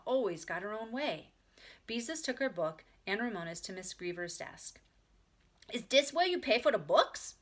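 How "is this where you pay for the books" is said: put-on high, loud child question; curious little girl. A narrator's reading. Ramona asks at the librarian's desk, loud and childlike. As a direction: ask like an unabashed four-year-old. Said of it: "asked Ramona".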